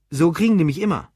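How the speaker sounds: high, loud, quick tipsy amusement; mild laughter. A narrator's reading. Drunk Lou jokes about being hounded, high and amused. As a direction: blurt it out as if laughing. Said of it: "lachte er wieder".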